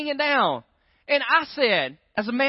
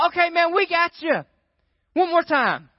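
coaxing guy; 7 semitones higher than usual. Retold or imitated. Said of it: "I watch the guy go".

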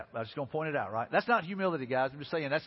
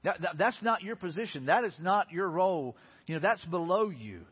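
mildly indignant retelling of a disciple's protest. Retold or imitated. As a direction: object firmly, leaning on each refusal. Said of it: "he was indignant".

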